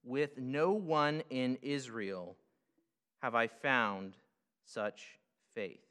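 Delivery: slow and weighty, leaning on "no" and "such"; solemn stressed reading of Jesus' words; emphatic quote. Shown as a demonstration. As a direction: read it slowly and give "such faith" its full weight. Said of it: "I'm emphasizing".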